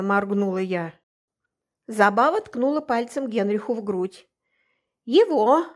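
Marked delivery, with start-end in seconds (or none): 5.0-5.7 a louder, higher outraged cry; indignant exclaim. Acted. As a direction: jab the word in outrage. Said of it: "возмущённо воскликнула она".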